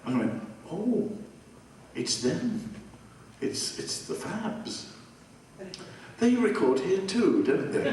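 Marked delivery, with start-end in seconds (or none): 0.7-2.7 starstruck, then a hushed aside; retelling a starstruck moment; awed gasp. Retold or imitated. Spotting a famous band in the hallway. 3.4-4.9 breathless whispered recognition; awed whisper. Retold or imitated. 6.2-7.9 starstruck, then a hushed aside; retelling a starstruck moment; awed gasp. Retold or imitated. Spotting a famous band in the hallway.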